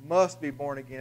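"Must" stressed at the front of the phrase; emphasis landing on "Must". Shown as a demonstration. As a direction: lean on "Must", then run on evenly. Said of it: "with the emphasis on there, must".

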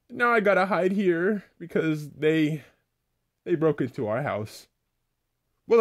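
high, chattering cartoon voice; a high cartoon kid, mildly anxious; high squeaky character. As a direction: squeak it out quick and nervous. Laffy Taffy explains and hides.

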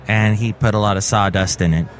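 low, halting monotone in separate chunks; stilted delivery. Real, not acted. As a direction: plod through it with odd pauses between phrases. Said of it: "I am talking like this".

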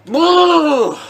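high, loud drawn-out roar; roaring self-encouragement. Real, not acted. Gamer psyching himself up for the match, high drawn-out shout. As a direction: holler it long and high.

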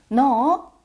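loud, high sharp call; angry mom yelling at her child. Shown as a demonstration. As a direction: bark the name out in anger. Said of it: "이렇게 부르지 마세요".

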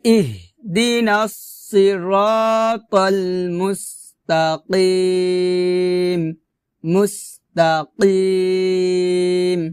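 slow, measured tajweed recitation; syllable-by-syllable Quranic model; full-verse recitation. Shown as a demonstration. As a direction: recite for repetition with long held vowels. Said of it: "আবার".

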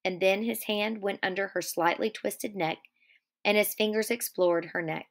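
steady read-aloud of the novel; story narration. A narrator's reading. Teacher reading Of Mice and Men aloud to class, steady narration.

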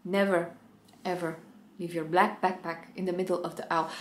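stern scolding. Retold or imitated. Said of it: "I was like".

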